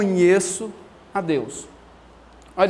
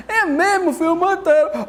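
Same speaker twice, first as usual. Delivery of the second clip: laughing father; 8 semitones higher than usual. Retold or imitated. Father answering daughter, laughing.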